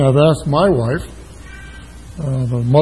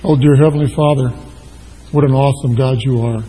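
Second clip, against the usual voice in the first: church prayer. Acted. Pastor praying before his sermon, reverent and hushed. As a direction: pray it reverently, letting each phrase settle.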